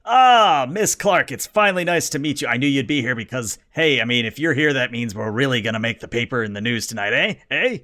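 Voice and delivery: bright, eager showman greeting; Kane's greeting. Acted. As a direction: schmooze the reporter like a salesman.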